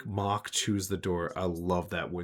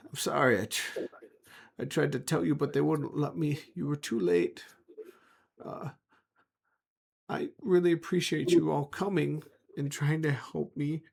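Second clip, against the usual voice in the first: higher, apologetic creature voice; a bound creature apologizing, pitched up; chained sun creature; 7 semitones higher than usual. Acted. Chained creature thanking the party for trying, higher and apologetic. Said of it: "slowly picks its head up and goes".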